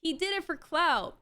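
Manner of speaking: lightly mocking the commenters' smug gotcha; mocking commenters. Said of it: "people are like".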